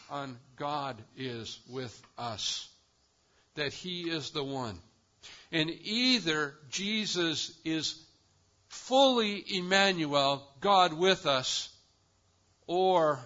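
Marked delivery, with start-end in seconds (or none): 5.5-13.2 louder, slow, weighty build; emphatic preaching. Real, not acted. Preacher to congregation, slow emphatic build. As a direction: drive the point home to the congregation.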